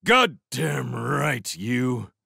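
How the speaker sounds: slow, high snarled retort. A narrator's reading. Foss confronting Lewis in a fight, snarling. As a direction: snarl it, drawing the words out. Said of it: "snarled Foss".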